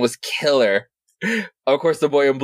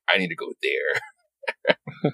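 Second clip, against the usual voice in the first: slow, quiet, low menacing line; unhinged Bruce; 6 semitones lower, 6 dB quieter, much slower than usual. Retold or imitated. Unhinged Bruce deciding his path, slow and quiet. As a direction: murmur it like a man unhinged. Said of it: "unhinged Bruce is just like".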